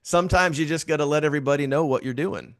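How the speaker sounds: lightly imitated Southern Georgia voice; Ivy. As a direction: slip into a mild Southern Georgia accent. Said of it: "in his kinda Southern Georgia voice".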